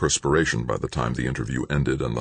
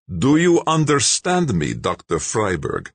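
louder and slow, pressing demand; insisting; 7 semitones higher, 4 dB louder than usual. A narrator's reading. Russian official demanding compliance, insistently. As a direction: force an answer. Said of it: "Malik insisted".

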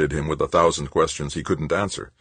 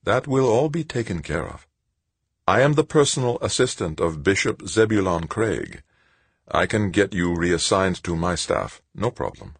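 lightly voiced sister, higher then dropping; self-assured Sister Angelique; 4 semitones higher than usual. Sister tells him his job will be handled, self-assured. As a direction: brush the worry aside with assurance.

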